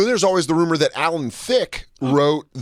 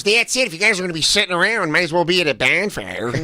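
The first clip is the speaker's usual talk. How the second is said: put-on light northern Chicago accent; hint of a Chicago accent, quick; 3 semitones higher than usual. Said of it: "she came out in a northern Chicago accent".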